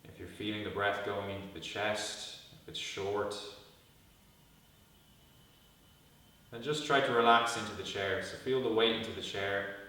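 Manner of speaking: calm guided meditation with long pauses; guided body scan. Real, not acted. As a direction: lead them gently into stillness, pausing between instructions.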